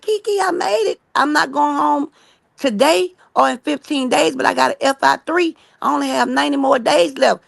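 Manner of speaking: high, excited burst that settles a little; a freed inmate telling her friend she made it; overjoyed news. Retold or imitated. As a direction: blurt out the good news, thrilled. Girl tells of making parole.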